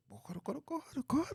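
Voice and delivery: breathless whispered plea. Retold or imitated. Reacting to the man's rant, whispered under the breath. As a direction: whisper it in mock exasperation. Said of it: "I said".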